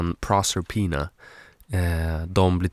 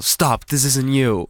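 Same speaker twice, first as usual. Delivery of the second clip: slow, higher pretend plea; mock pleading; 4 semitones higher, slower than usual. Contestant to those about to shoot, mock pleading. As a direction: play at talking down an attacker. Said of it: "när de försöker typ skjuta mig".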